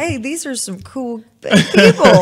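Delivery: high, slow, loud playful animal voice with a laugh; duck voice. Pretend. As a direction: voice a happy duck making friends. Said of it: "And that duck was like".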